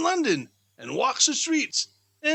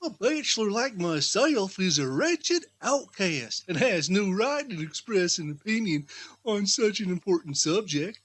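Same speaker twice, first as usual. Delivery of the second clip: lightly voiced Topper; 7 semitones lower than usual.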